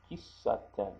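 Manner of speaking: Kissaten with a held double s; elongated S. Shown as a demonstration. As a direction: hold the ss in Kissaten. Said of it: "I kind of elongate the S sound".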